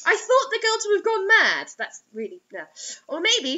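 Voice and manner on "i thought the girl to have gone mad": laughing. Real, not acted. Laughing while rereading.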